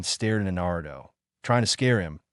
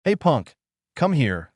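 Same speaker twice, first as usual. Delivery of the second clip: loud, rough call to fight; tough challenge; 5 semitones higher, 4 dB louder than usual. Acted. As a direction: pick a fight. Painted boy ready for a fight.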